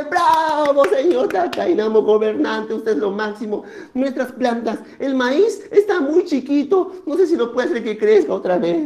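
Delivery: lightly voiced cheer turning to a plea; townspeople. Villagers ask Takainamo about the tiny maize, mildly pleading. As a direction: hail the leader, then petition him. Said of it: "y la gente".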